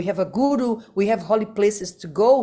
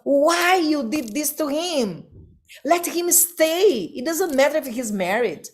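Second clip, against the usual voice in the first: upset Prabhupada; 5 semitones higher than usual. Retold or imitated.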